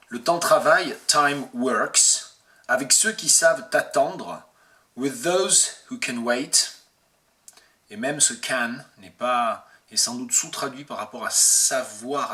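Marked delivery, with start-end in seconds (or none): 0.1-6.7 louder, projected bilingual verse reading; verse recitation. Acted. Translator gives French verse then English version, projected recitation. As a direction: declaim each French phrase, then its English rendering.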